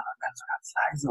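half-mocking hushed whisper; imitating people whispering at a deathbed. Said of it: "fangen auf einmal alle an zu flüstern".

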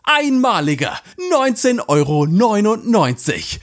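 pushy infomercial sales voice, selling hard; teleshopping pitch. Pretend. Host parodies a teleshopping ad, pushy sales pitch. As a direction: hype up the bargain like a TV shopping host. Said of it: "falsches Format".

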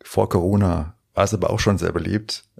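sentence dissolves into giggles; losing it to laughter at the end; laughing fit. Real, not acted. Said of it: "Ich muss abbrechen".

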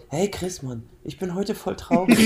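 seicht sad actor voice. Retold or imitated. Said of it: "wenn du so kommst und sagst".

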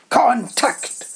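high startled cry of Kontakt; surprised cry. A narrator's reading. Narrator touches a slug with bare foot, startled cry.

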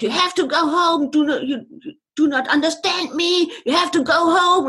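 hammed-up angry official insisting she leave; imitating a shouting inspector. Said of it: "Und er wurde immer lauter und immer lauter".

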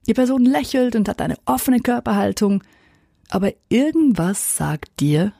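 usual speaking voice

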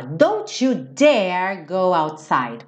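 slow, drawn-out threat, leaning on DARE; mock-furious, stretch out "dare"; stern, deliberate scolding; angry warning. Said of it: "quando você tá muito bravo".

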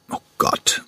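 tonlos gehauchtes Stöhnen; müde aufstöhnen, fast ohne Stimme; gestöhnt. Acted. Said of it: "stöhnte Egon Matzen". (Egon stöhnt verkatert über die Uhrzeit, tonlos)

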